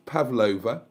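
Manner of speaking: "pavlova" said as pav-LOH-vuh; "pavlova" with stress on LOH; wrong name attempt. Shown as a demonstration. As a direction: offer "pavlova" as a wrong guess, rising at the end. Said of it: "It's not".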